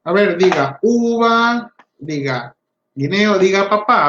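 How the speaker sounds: put-on slow, coaxing prompt to a child; prompting a child to repeat. Shown as a demonstration. Therapist coaxing a child to echo words, slow and clear. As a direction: sound out each word for a little one to copy. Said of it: "La ecoica es la repetición".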